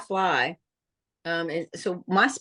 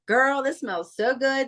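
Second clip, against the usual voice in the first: excited; 6 semitones higher, slower than usual. Retold or imitated. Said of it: "They were so excited".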